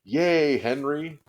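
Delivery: loud, high cheering yell. A narrator's reading. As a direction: cheer from a window. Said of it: "yelled some big boys".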